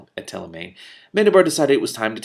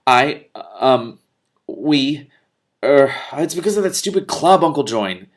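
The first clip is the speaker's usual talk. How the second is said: put-on eager boy; 5 semitones higher, 9 dB louder, slower than usual. Boy blurting helpfully.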